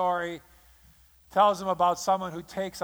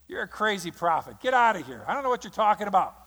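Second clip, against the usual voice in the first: a touch of indignant bluster, louder; mock angry denial; 3 semitones higher, 5 dB louder, faster than usual. Preacher voicing King David scolding the prophet. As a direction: brush the prophet off, hammed-up.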